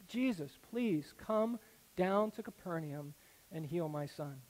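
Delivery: slow, broken-hearted pleading; heartfelt plea. Retold or imitated. Father begging Jesus to heal his son, slow and heartbroken. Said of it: "He pleads with Jesus, a repeated, heartfelt".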